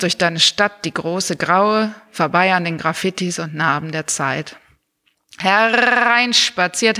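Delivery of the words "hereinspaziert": carnival barker. Acted. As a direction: call them in like a fairground barker. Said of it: "mit der Megafonstimme eines Losbudenbesitzers".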